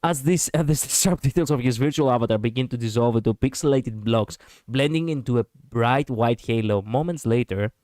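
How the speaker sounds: reading story narration aloud; measured storytelling read-aloud; game narration. A narrator's reading. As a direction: narrate the scene in an even voice. Reads the game's narration aloud.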